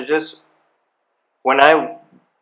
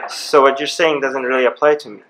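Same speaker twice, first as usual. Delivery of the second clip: chuckling through the cheeky reply; laughing. Retold or imitated. Recalling defying the police officer, laughing. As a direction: laugh it off while defying him.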